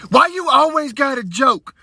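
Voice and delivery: high, slow mock whine of outrage; mad little girl. Daughter fed up with dad's jokes, mock angry. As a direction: stretch it out like a fed-up child. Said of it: "This little girl got so mad".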